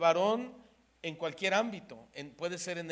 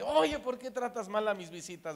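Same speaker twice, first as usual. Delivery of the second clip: higher, louder indignant complaint; angry wife; 5 semitones higher, 4 dB louder than usual. Retold or imitated. Wife confronting the rude guard, mild mock indignation. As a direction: retell the wife confronting him, mildly heated. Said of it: "mi esposa que se enoja".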